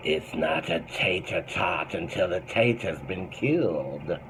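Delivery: a slow, lightly voiced nebbish New Yorker; a hint of a fretful neurotic comic, drawn out slow; light slow Woody Allen take; Woody Allen impression. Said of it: "Fuck, Woody Allen".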